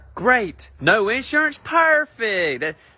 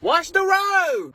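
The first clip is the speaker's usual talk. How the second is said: much higher, slow, drawn-out alarm; panicked yell; 13 semitones higher, much slower than usual. Acted. Panicked high passenger yelling.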